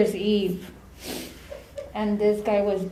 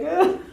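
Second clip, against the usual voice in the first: higher, louder "oh"; imitated squeamish cry; 8 semitones higher, 6 dB louder than usual. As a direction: mimic your own squeamish yelp. Repeats own cry while lifting patient.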